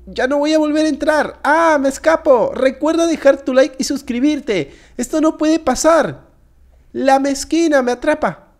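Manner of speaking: high-pitched cries on the run; playful panic. Pretend. Player flees the girl chasing him, in mock panic. Flees while being chased.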